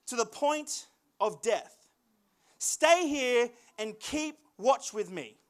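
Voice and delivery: measured scripture reading with weighty pauses. A narrator's reading. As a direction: read it out solemnly, phrase by phrase.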